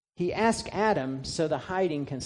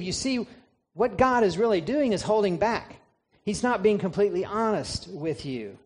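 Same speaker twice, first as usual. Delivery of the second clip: sly tempter; 5 semitones higher than usual. Retold or imitated. Preacher voices Satan tempting Eve.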